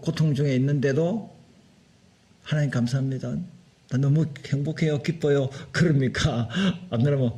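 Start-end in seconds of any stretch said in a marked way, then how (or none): 2.4-5.5 mock the thankful believer gently, hushed; grateful prayer. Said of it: "불평불만 원망합니까?". (징계 중에도 감사하는 신자의 조용한 기도)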